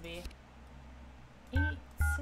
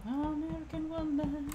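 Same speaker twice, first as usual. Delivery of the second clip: mock American accent; 4 semitones higher, 5 dB quieter, slower than usual. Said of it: "an American woman was with me".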